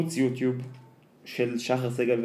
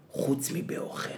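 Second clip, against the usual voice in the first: whispered punchline; 2 semitones higher, 8 dB quieter than usual. Retold or imitated. Punchline of quoted confession.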